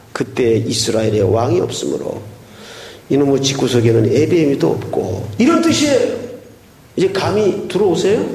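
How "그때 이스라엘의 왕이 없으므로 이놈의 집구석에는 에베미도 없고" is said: low, hushed, sorrowful reading; sad tone. Shown as a demonstration. Pastor reading Judges' last line in a sad whisper. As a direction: sigh it out like a grieving father. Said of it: "매우 슬픈 어조로".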